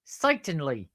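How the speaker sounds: lightly attempted comic catchphrase; a hint of slapstick stooge voice; Curly from the Stooges. Shown as a demonstration. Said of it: "that sound like Curly and Moe".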